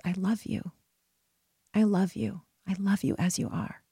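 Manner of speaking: quiet, tender repeating of a loving phrase; soft inner mantra. Retold or imitated. Silently repeating love to a crying stranger, soft and tender. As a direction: murmur it gently to yourself. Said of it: "what I kept repeating to myself".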